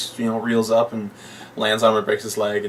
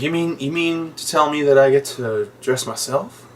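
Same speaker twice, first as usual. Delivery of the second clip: mock amazed Django; 4 semitones higher than usual.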